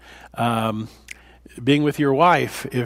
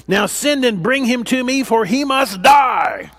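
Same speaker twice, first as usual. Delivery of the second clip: furious king; 6 semitones higher than usual. Acted. King Saul raging at his son Jonathan, building fury. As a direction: rage building until he must die. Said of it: "Saul's anger flared up at Jonathan".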